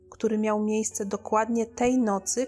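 plain reading voice

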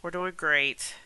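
blocked nose, congested voice; stuffed up nose. Real, not acted. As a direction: talk through a stuffy nose. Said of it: "Sorry if I sound a little bit stuffed up".

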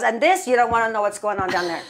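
lightly faked Latina accent, quick; amateur Latina accent, rattled off; bad Latino accent. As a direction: put on a rough Latino accent. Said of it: "doing a very bad Latino accent".

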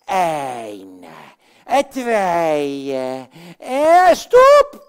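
building count that explodes into a shout; shouted stop. Acted. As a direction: burst out with stop. Puppet counts then shouts stop.

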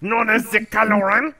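hammed-up French accent, lordly; mock French accent. Coy declaring himself the French Kylo Ren, mock French accent. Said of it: "confusing all the different language people".

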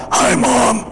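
high, strained worn-out voice; lost voice. Shown as a demonstration. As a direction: croak it out with a tired voice. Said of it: "I've lost my voice".

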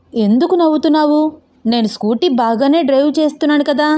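indignant protest. Acted. Learner objects to friend laughing at her riding, indignant protest. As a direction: defend yourself against the teasing.

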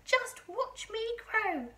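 put-on high, slow, loud old-lady crow; boastful shout. A narrator's reading. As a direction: show off, stretching every word. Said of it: "she shouted".

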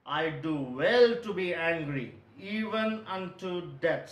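slow, deliberate defiance as Jonah; stubborn. Acted. Preacher quoting Jonah's answer to God, stubborn. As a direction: dig in stubbornly, drawing the words out. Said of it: "See that stubbornness".

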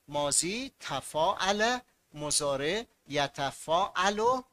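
slow, drawn-out pattern; slow recitation. Shown as a demonstration. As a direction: spell out تفاعل slowly. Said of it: "teacher recites paradigm". (آهسته و کشیده)

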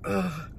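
soft, exasperated "ugh"; retold groan. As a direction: let out a quiet fed-up groan. Retold groan over lost phone.

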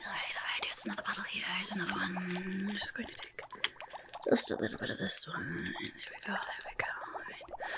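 hushed, close-up ASMR whisper. Pretend. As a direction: whisper gently like an examiner guiding a patient. Whispered ASMR taste test role-play.

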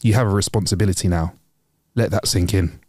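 lightly voiced older boss, pitched low; measured, grave advice in a low voice; stern, wise manager. Manager counselling a nervous new doorman, stern but wise. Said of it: "sternly in his eyes, but with a little bit of wisdom".

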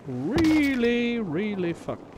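really really, rising in despair; stress on really. Real, not acted. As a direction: stretch really out in dismay. Lamenting being shot.

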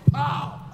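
high "pow" impact noise; imitated headbutt. Teacher headbutts the laughing boy, comic impact.

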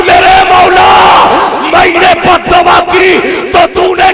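fervent prayer. Acted. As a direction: beg God with full force. Mother prays aloud to God.

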